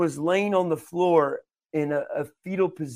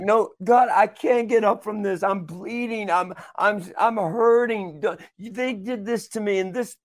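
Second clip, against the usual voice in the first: re-enacted pleading, higher at the peaks; dramatic lament; 5 semitones higher, 3 dB louder than usual. Preacher retelling their complaint to God, dramatic. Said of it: "I was getting dramatic with it".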